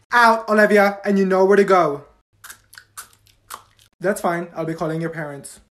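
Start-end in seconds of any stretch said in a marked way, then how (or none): 0.1-2.0 stern teacher. Acted. Teacher sends student out.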